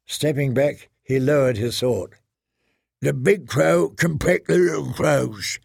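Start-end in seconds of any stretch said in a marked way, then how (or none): 3.0-5.6 a hint of a gruff wildling; lightly growled taunt; growling. A narrator's reading. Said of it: "growled a voice".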